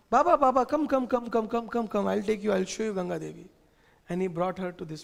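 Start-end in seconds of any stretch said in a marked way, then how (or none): 0.1-3.5 tug your father along, eager; child calling Baba. Acted. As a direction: son urging his father to come see. Child Krishna calls father along.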